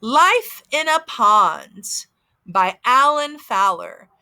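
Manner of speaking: slow, clear storytime reading; reading to a toddler. Acted. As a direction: read the title slowly for little kids. Reading title slowly to kids.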